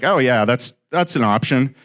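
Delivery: mock-casual, understated reply; playing it cool. Borrower answering the banker's offer, playing it cool. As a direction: act lightly unbothered, holding the excitement back. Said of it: "like, play it cool".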